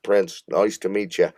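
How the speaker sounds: badly faked British accent; attempted British accent. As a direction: have a rough go at a British accent. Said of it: "I can't do the accent".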